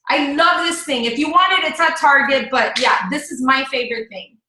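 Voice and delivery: casual recommendation easing down from a gush; genuine sharing. Shown as a demonstration. Coach wrapping up her product demo, genuine enthusiasm. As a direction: share a favorite with friends. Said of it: "that's how you do it".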